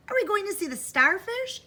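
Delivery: put-on high-pitched excited kid; eager child. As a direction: ask like an eager little girl. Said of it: "asked Jenny".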